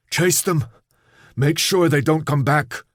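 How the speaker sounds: high loud calling out; shouting. Acted. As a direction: call out to anyone listening. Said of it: "He spoke aloud".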